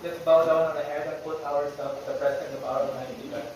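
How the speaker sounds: measured, even-toned classroom prayer. Real, not acted. Teacher leading the class in opening prayer, solemn prayer delivery. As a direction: lead the prayer evenly, pausing between petitions.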